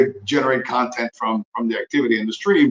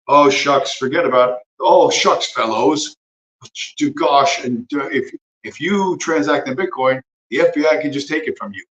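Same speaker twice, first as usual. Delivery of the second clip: sarcastic aw-shucks voice, pitched up; mock aw-shucks official; 3 semitones higher than usual. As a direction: play a fake-innocent lawman shrugging it off. Mocking the FBI's shrugging excuse.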